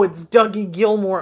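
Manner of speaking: loud, high, starstruck; mock fan squeal. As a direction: squeal the name. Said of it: "I could have been like".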